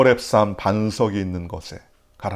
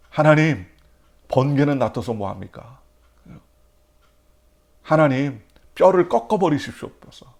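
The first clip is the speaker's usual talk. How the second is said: anguished cry to God; 3 semitones higher, 3 dB louder than usual. Retold or imitated. David crying out a curse to God, loud and pleading. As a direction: cry it up to heaven, raw and bitter.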